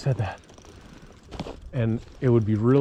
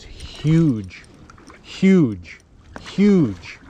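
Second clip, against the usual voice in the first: building excitement; 4 dB louder, much slower than usual. Real, not acted. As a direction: let the word grow with each repeat. Hooked huge trout, building.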